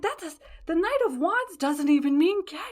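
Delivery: nervous rushed defence; flustered backpedal. Retold or imitated. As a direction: scramble to take it back. Panicked backpedaling in story.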